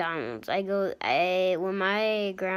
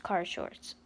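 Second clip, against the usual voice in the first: whisper; 7 dB quieter than usual. Real, not acted. Aside after story.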